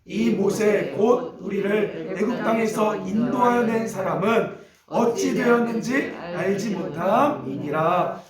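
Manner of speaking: drawn-out, even recitation for reading together; scripture read-aloud. Acted. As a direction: lead the congregation through the verse, phrase by phrase. Reads scripture aloud with congregation.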